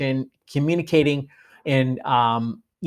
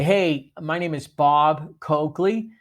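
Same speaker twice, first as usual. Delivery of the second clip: deliberate intro; slower than usual. Shown as a demonstration. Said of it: "make it remarkable".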